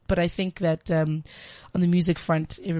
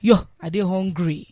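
Nigerian Pidgin. Retold or imitated. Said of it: "So I'm speaking Pi".

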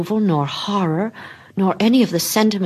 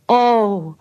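higher, louder delighted oh; excited exclamation; 5 semitones higher, 6 dB louder than usual. Acted. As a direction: burst out with joy. Della's exclamation.

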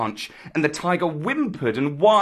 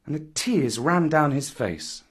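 plain reading voice

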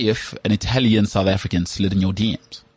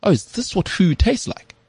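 higher, slow, wide-eyed wonder; amazed; 11 semitones higher, slower than usual. Retold or imitated. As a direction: savour the revelation slowly. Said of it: "You go".

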